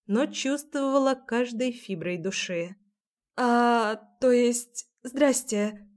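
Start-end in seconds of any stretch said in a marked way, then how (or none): 3.4-5.9 small squeaky put-on voice. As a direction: squeak it out nervously. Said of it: "едва слышно выдала Марина не своим, писклявым голосом".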